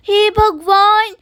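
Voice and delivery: slow, loud gasp of shock at the mess; shocked exclamation. Acted. Daughter-in-law sees the wrecked kitchen, stunned and loud. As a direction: draw out a stunned oh God.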